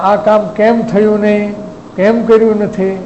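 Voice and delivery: mock scolding demand; mild demo of a harsh tone. Shown as a demonstration. Teacher showing listeners the harsh way to complain about undone work, mildly scolding. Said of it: "tone બદલી જાય".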